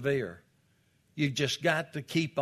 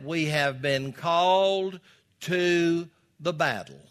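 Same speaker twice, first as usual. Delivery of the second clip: emphatic preaching; 3 semitones higher, 5 dB louder than usual. Acted. Preaches with rising force.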